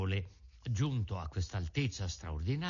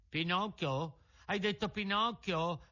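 high, startled repeat of his name; surprised puppet; 7 semitones higher than usual. A narrator's reading. Pinocchio hearing the pigeon say his name, high startled. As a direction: jump at hearing your own name.

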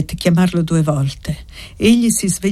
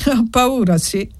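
slightly ironic; 5 semitones higher than usual. A narrator's reading. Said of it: "Ella rispose un po' ironica".

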